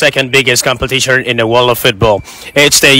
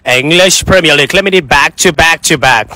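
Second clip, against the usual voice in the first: put-on UK accent. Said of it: "I'll start with U K accent".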